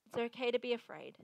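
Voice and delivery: soft, understated comfort; soothing reassurance. Pretend. Repeating movie advice to the afraid, soothing reassurance. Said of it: "that advice given?".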